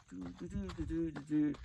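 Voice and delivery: quiet "do do do" for footsteps; soft walking noise. Retold or imitated. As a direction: hum out a little walk under your breath. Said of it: "I walks up the aisle like this".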